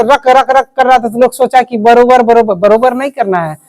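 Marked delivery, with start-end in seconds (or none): 0.0-0.7 "रक" repeated with a full vowel after r; r too heavy. Retold or imitated. Teacher mimics pupils' mistake, "रक" with full r. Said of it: "यहाँ तो हल्का नहीं कर पा रहे".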